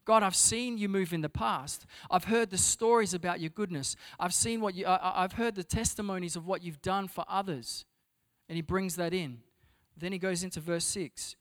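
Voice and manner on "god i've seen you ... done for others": rising faith. Retold or imitated. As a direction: push back with remembered hope. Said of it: "to express".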